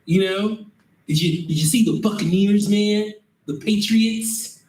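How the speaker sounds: high, overly chummy supervisor voice; fake-friendly supervisor. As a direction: play the boss who's suddenly your buddy. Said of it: "He go".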